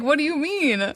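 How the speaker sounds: retold bewildered asking; baffled question. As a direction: act genuinely confused. Retold confused reply to friends.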